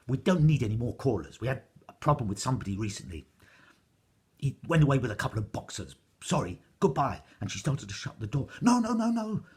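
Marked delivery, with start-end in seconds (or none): 0.1-7.2 fast, loud brush-off; the giantess rushing to get rid of them; hurried giantess. A narrator's reading. 8.6-9.4 high, loud pleading; the cat stopping the door from shutting; urgent protest. A narrator's reading.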